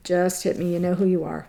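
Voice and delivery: softly stunned; hushed, moved. Real, not acted. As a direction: let it drop to a quiet murmur as it sinks in. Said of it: "I'm getting emotional".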